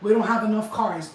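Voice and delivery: parroting the dealer's line, mildly mocking; quoting the dealer. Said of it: "I looked at him like".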